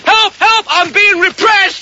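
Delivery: milk it as a fake victim; hammed-up cry for help. Peasant cries for help.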